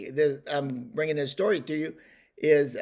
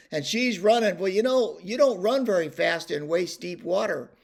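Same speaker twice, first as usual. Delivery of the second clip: usual speaking voice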